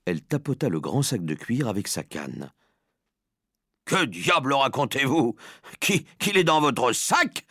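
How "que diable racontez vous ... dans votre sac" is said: higher, indignant outburst; moderately raised, baffled cry; incredulous cry. Acted. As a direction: exclaim in disbelief, slowing on the second question. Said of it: "cria monsieur Jenkins".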